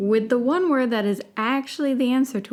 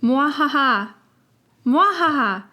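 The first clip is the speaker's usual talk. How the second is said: mad scientist; 5 semitones higher, 5 dB louder than usual. Acted. The laugh lesson continues.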